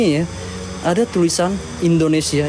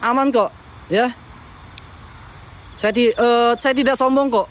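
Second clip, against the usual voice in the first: high, sing-song coaxing voice; coaxing ghosts; 5 semitones higher than usual. Pretend. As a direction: sweet-talk the ghosts out, pitched up.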